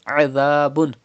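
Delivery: adhabun with ain from mid throat and dhal without whistle. Shown as a demonstration. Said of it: "pronounce dhal without whistle sound".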